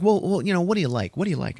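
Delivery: put-on high, flustered girl voice; insistent schoolgirl. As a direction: press him for any answer. Yearbook girl pressing him.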